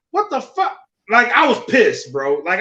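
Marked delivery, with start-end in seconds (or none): 0.1-0.8 incredulous what the fuck. Retold or imitated. Retold outrage at the dock.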